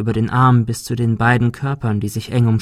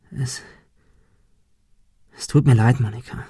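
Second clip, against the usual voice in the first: sincere apology. A narrator's reading. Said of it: "Er meinte es todernst".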